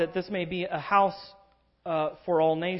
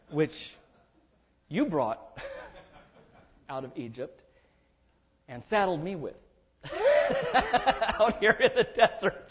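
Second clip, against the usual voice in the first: pleading Moses. Retold or imitated. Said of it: "Moses responds as the mediator, saying".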